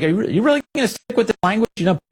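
high, fast mocking reporter voice; mocking imitation of a pushy reporter. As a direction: rattle off the reporter's question in a put-on voice. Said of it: "he's like".

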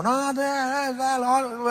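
un "no, no, no" agudo y exagerado; imitando discusión fuerte. Retold or imitated. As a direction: remeda el tono fuerte de su familia. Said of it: "hablar así". (imitación exagerada de discusión familiar)

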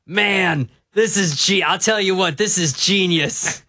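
Collinsworth impersonation. Acted. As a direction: play an admiring TV commentator, lightly voiced. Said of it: "he goes right into a Collinsworth impersonation".

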